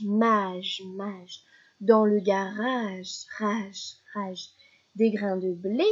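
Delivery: measured rhyme with each last syllable echoed; nursery rhyme recitation. Shown as a demonstration. Teacher reciting a rhyme for a child, measured, with echoes. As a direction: recite rhythmically, pausing before each echo. C'est une autre comptine encore.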